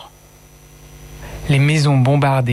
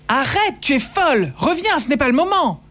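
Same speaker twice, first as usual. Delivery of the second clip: frantic pleading; 12 semitones higher than usual. Acted. Mother and sisters stopping her.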